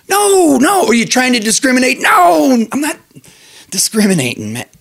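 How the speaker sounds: high, indignant cartoon duck. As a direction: rant like an offended cartoon duck. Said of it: "The duck's like".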